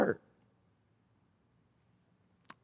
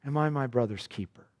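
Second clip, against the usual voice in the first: much softer and lower, a defiant murmured retort; awful retort of Cain; 6 semitones lower, 8 dB quieter than usual. Retold or imitated. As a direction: say it low and hushed, coldly defiant. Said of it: "you get the awful response".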